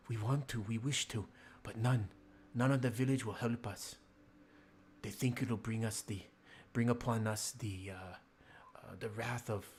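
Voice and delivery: lightly voiced young woman pleading for help; half-voiced sister begging the visitors. Sister begs strangers to bury her father, lightly pleading. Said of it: "That, that was pretty good".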